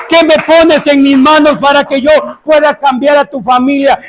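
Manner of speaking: rally the congregation to fight for salvation; impassioned preacher urging the flock on; preaching with force. Acted. Preacher exhorting congregation, rising fervor.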